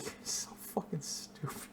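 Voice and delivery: fake-scold from a whisper up to a yell; mock exasperation. Owner scolding the dumb dog, half joking. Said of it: "how I would treat my dog".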